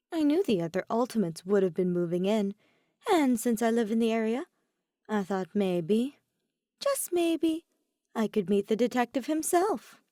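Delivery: a sly trickster opening up a little; Oma, playful. Acted. Oma explains meeting.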